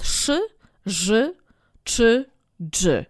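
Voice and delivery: "szy, ży, czy, dży" as hard, unsoftened sounds; twarde dwuznaki. Shown as a demonstration. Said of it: "Ma wiele dwuznaków twardych". („szy, ży, czy, dży” twardo, bez zmiękczania)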